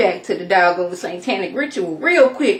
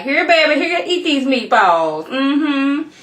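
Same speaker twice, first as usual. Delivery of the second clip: lightly voiced fussing grandma; a hint of pushy, higher-pitched grandmotherly hospitality; doting grandma; 5 semitones higher than usual. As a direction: coax someone to eat like an insistent grandma. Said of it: "like they was somebody's grandma".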